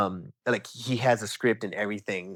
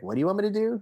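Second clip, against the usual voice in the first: much higher, disbelieving question; stunned; 10 semitones higher, much faster than usual. Retold or imitated. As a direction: act floored by the request. Stunned at autograph request.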